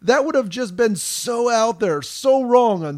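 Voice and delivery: retold second-guessing. Voicing Al still mulling a regret.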